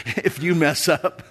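laughing through the words; real chuckle breaking into the line; amused self-correction. Real, not acted. Preacher softening his blunt quote of God, chuckling as he speaks.

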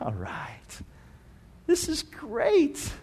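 quietly delighted, said through a smile; soft approval rising high on the second phrase; pleased, smiling. Acted. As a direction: let quiet delight show. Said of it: "there's a smile on his face".

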